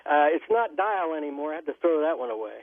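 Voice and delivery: thin telephone line sound; over a landline phone. Real, not acted. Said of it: "I'm on the landline here".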